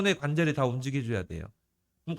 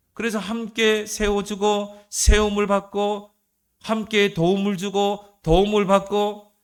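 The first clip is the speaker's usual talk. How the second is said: raised, loud, deliberate sermon cadence; forceful preaching; 4 semitones higher, 7 dB louder than usual. Acted. Preacher on church members building each other up, forceful preaching. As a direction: drive each phrase home to the congregation.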